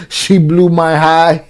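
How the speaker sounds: slow, mocking repeat with a laugh behind it; mock quote, drawn out. Host mimicking the stepfather's complaint, slow and mocking. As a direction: drag it out to poke fun at the complaint. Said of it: "He said".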